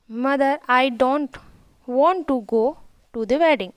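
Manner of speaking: slow, careful read of each English word; slow reading aloud. Shown as a demonstration. Teacher reading the English story line to her pupils, slow and careful. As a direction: read it out slowly for the class.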